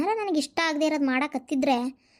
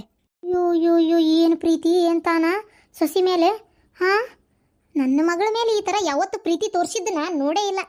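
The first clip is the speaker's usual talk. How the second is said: loud, mocking ayyo ayyo; sarcastic outburst; 2 semitones higher, 4 dB louder than usual. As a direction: jeer at her show of love. Sarcastic jealous outburst at in-law.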